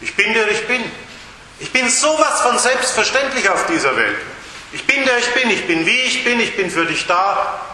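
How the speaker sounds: easy, unpompous God who is simply there for you; casual, self-evident. Shown as a demonstration. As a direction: say it as the most natural thing in the world. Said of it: "auch ganz anders betonen".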